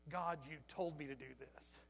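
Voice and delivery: low, soft, sobered echo; subdued replay. Retold or imitated. Worker hearing his own words to God, subdued. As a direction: repeat it quietly, as if hearing yourself. Hushed, regretful repeat of outburst.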